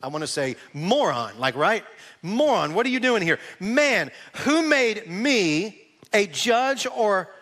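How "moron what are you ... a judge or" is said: mock-exasperated, slowing on the rebuke; mildly annoyed. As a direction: put on a touch of irritation, drawing out the end. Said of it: "his being annoyed with him".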